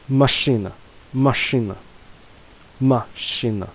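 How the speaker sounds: "машина" stressed on the first а, falling away; stress on first syllable. Shown as a demonstration. Teacher repeating an example for learners, first syllable of "машина" stressed. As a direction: hit "ма" in "машина", keep the final а light. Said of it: "stress falls on the first syllable a".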